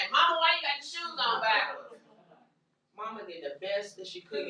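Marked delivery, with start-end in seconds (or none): 0.1-2.0 put-on child asking. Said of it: "you say".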